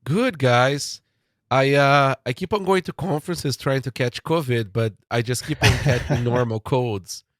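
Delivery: stuffy nose from a cold; blocked nose, real head cold; nasal voice. Real, not acted. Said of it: "my nasal voice today".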